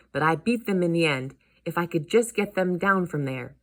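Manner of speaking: lightly voiced worked-up uncle; a hint of a thwarted cartoon uncle; determined uncle.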